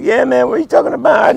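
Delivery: Harlem street talk. Retold or imitated. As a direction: talk like the hip jazz guys. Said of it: "you gotta talk like".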